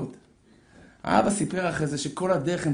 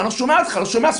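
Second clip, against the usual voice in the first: raised, higher voice, repeated call; acted shout to another car; calling over noise; 7 semitones higher, 5 dB louder, faster than usual. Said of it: "אז הוא צועק לו משהו". (קריאה רמה מעל הרעש)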